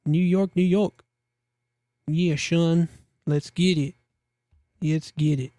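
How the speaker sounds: mock Brooklyn accent, lightly done; a terrible Brooklyn accent for New York. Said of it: "Terrible Brooklyn accent".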